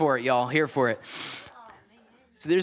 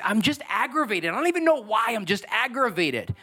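aggravated; 4 semitones higher than usual. Retold or imitated. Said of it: "many different people that have said".

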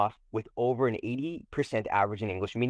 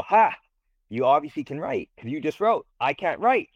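Ha! burst out higher and louder; teacher gleefully catching the student out; triumphant gotcha; 6 semitones higher, 5 dB louder than usual. Retold or imitated. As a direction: catch her out with glee.

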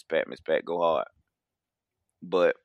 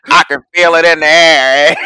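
laughing; 6 semitones higher, 11 dB louder than usual. Real, not acted. Laughing singsong after joke.

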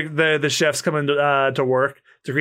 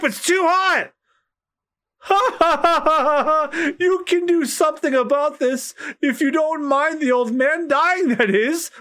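higher, brash pirate voice; a higher, swaggering pirate taunting the cook; pirate bluster; 12 semitones higher than usual. Acted. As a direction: crow and threaten the cooks. Voicing pirate figures.

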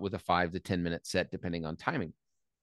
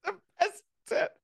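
laughing. Real, not acted. Laughing agreement mid-story.

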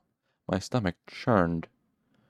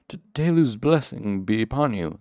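stammering; 3 semitones higher, 3 dB louder than usual. Acted. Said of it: "stammered explosively".

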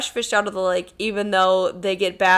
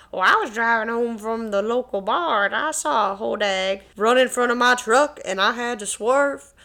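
put-on Kentucky accent; 4 semitones higher than usual. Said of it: "sounded like they were from Bowling Green, Kentucky".

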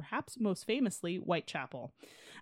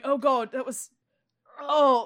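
disgusted Londoner; 6 semitones higher, 8 dB louder, slower than usual. Retold or imitated.

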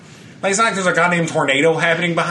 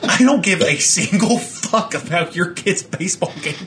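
laughing rant; 2 semitones higher than usual. Retold or imitated.

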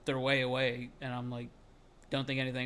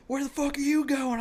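high, strained mock yell; acted-out confrontational holler; imitated angry challenge; 12 semitones higher, 4 dB louder than usual. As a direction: challenge him as the retold attacker. Imitates attacker confronting teller.

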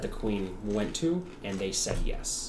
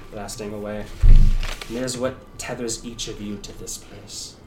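solemn Shadar Kai. Acted.

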